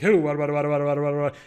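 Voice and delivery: rapid-fire mock auctioneer babble on one note; auctioneer patter. Shown as a demonstration. Driver clowning over a car PA, auctioneer patter. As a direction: rattle it off like an auctioneer. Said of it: "you do the auctioneer stuff like".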